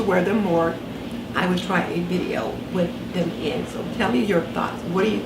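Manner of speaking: talking with retainers in; wearing a retainer. Real, not acted. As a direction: speak around a dental retainer. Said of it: "So I've got them in now".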